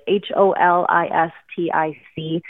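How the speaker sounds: each letter said separately; spelling it out. Shown as a demonstration. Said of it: "and I'll spell it for you".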